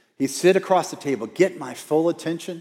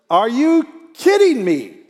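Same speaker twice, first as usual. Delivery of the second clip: loud, high, drawn-out mock protest; exasperated outburst; 10 semitones higher, 7 dB louder, slower than usual. Preacher confessing his first thought on being interrupted, hammed-up exasperation. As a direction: whine it at full volume, hammed-up and put-upon.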